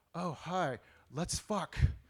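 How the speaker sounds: slow, deliberate, drawn-out flirtatious come-on tone. Acting out a composer at a bus stop approaching his soulmate: imitating a composer dating. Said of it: "my impression of a composer dating".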